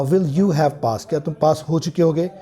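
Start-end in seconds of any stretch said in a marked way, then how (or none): 0.0-1.1 drawn out, each word separate; slow dictation. Shown as a demonstration. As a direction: spell the question out slowly for the class. Dictating a question form. (बहुत धीमे, शब्द-दर-शब्द लिखवाना)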